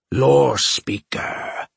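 slow, precise alien voice; each syllable placed with care. Acted. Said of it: "the other said again, very precisely".

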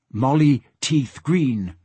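slow, drawn-out pidgin words; lightly voiced porpoise, each word drawn out; porpoise speech. Porpoise reporting to Asta, slow porpoise speech.

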